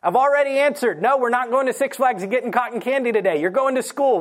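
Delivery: mock a parent tired of being asked; exasperated parent. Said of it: "Anybody who's been a parent".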